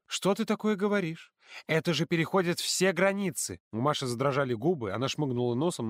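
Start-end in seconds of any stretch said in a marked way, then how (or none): 0.1-3.6 higher, stern counselor; stern question. A narrator's reading. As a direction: ask sternly, shocked. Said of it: "строго спросила". (вожатая строго спрашивает)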